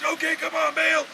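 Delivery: calling out. Retold or imitated. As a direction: call out to Baal for an answer. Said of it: "they shouted".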